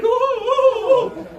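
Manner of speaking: the penny drops, mortified; embarrassed oh. Retold or imitated. Lady realizing what she prayed, squealing embarrassed ohs. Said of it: "she turned beet red".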